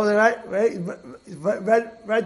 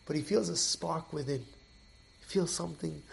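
whispered revelation; 7 dB quieter than usual. A narrator's reading. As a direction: let the secret spark come out on breath. Inner spark of the story.

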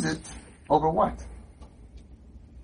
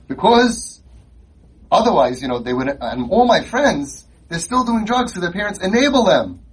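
lower, mocking recovering-addict voice; lightly voiced sarcastic teen; sarcastic kid's testimony; 4 semitones lower than usual. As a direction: parody the kid's too-neat success story. Mocking a kid's clean-up story.

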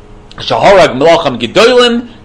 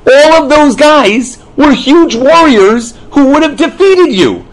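much higher voice as God setting his people straight; God speaking; 7 semitones higher, 3 dB louder, slower than usual. Acted. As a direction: speak as God, pitched well up. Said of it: "And Hashem's like".

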